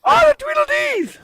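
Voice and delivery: high squeaky puppy-talk voice; doggy voice. Pretend. Hiker greets his dogs on the trail, doggy voice. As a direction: coo at the dogs like babies. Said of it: "That was my doggy voice".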